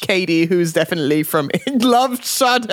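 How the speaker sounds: mock-British sign-off breaking into laughter; laughing through a British accent. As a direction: sign off in put-on British, cracking up. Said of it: "read it with a British accent".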